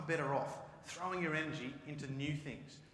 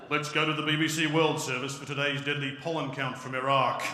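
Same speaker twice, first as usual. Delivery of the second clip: mock news announcer; 8 dB louder than usual.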